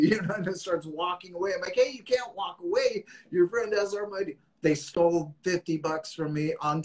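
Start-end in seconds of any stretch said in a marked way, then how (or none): 1.8-4.4 calling after him. Retold or imitated. Calling after the departing thug.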